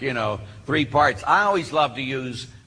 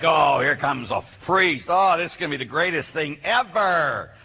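sarcastic fake enthusiasm, stretched out; imitating underwhelmed schoolboys, mock thrilled; mock excitement; 2 semitones higher than usual. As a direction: drag it out as a bored teen feigning excitement. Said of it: "they're all excited about that".

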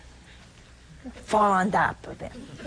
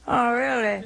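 mock-sceptical oh really with a laugh; lightly imitated doubter; unimpressed reply. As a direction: deflate the enthusiasm, amused. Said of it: "and they go".

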